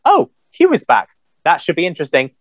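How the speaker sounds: a quick, bright-pitched "Oh, Q is back"; mock excited reaction. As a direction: toss off a mildly excited first reaction. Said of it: "all I wanted to say about the Picard trailer was".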